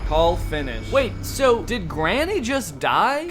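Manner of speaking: ordinary talk, nothing marked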